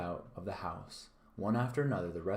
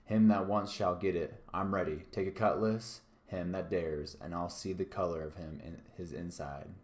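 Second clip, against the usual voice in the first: roared challenge. Acted. Silver daring the crew to fight, roaring. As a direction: bellow it at the crew. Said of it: "roared Silver".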